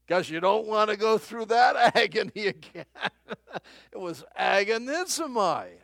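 laughing loudly through the words. Real, not acted. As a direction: laugh out the agony, loud and high. Laughing recall of agony.

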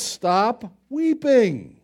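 slow, gentle but firm command; compassionate command. Acted. Jesus gently commanding the grieving widow, slow and tender. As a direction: tenderly order her to stop weeping. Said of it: "He compassionately orders her".

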